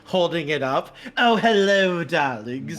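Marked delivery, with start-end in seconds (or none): 1.2-2.8 campy drag queen. Acted. Domino greets with flair.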